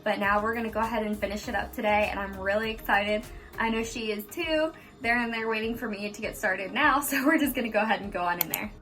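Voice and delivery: whispering while hiding. Real, not acted. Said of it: "I'm hiding in the bathroom because my kids are".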